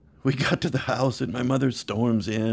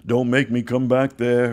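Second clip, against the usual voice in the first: louder, lightly stern father warning; mock stern dad; 5 dB louder than usual. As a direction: play a dad faking anger. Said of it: "my dad would pretend like he was upset".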